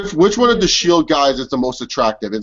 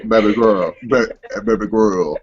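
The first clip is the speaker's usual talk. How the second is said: Roman Reigns impression; 6 semitones lower than usual. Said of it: "that's my Roman Reigns impression".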